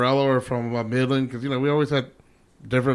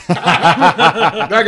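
laughing; 3 semitones higher, 9 dB louder than usual. Real, not acted. Laughing at Crabtree memory.

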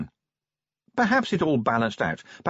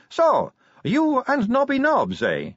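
higher, slow, drawn-out teasing voice; sly tease; 14 semitones higher, 4 dB louder, slower than usual. Acted. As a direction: lean in and draw it out knowingly. Sally teasing Tawny about Nobby.

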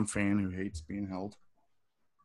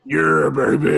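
hype cheer; 4 semitones higher, 7 dB louder, much slower than usual. Real, not acted. Friend cheering the new gun purchase, hyped. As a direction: cheer it on like a buddy.

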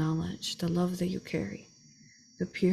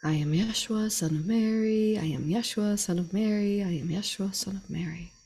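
lightly intoned channelled voice, slightly raised then fading; Yeshua. Acted. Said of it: "allow Yeshua to guide the rest".

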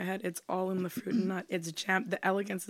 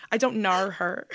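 put-on Australian accent. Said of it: "I don't nar".

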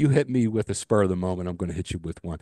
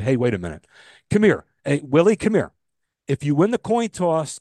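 calling a player over; 2 semitones higher, 3 dB louder than usual. Acted. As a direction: shout to get Willie over here.

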